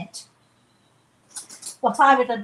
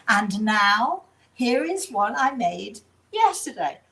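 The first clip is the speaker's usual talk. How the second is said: TV chef; slower than usual. Retold or imitated. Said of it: "and the person says".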